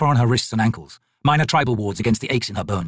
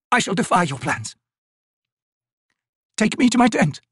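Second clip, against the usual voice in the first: put-on high, firm voice of a frail old woman defying the spirits; defiant old woman; 10 semitones higher than usual. Old Maibi defying the spirits below, high and resolved. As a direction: declare your defiance coldly.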